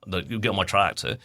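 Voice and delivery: lightly imitated Norfolk accent. Essex-born host showing a guest how Norfolk talks, light Norfolk accent. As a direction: put on a bit of a rural Norfolk accent. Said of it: "Norfolk's talking like that".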